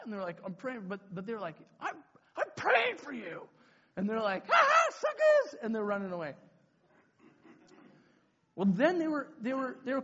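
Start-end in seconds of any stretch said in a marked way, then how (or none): 1.8-3.4 high, drawn-out mock protest; indignant protest. Doused leaders to prankster kids, high indignant cry. 4.5-5.6 high, loud mocking cackle; gleeful taunt. Prankster kids fleeing doused leaders, loud high taunt.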